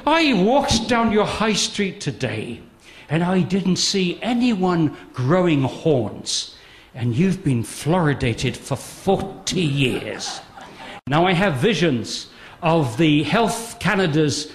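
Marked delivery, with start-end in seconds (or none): 0.1-10.4 put-on slow, lightly done Irish accent; gentle hint of an Irish brogue. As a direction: quote the official in a mild Irish lilt. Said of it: "so I tried to give the accent".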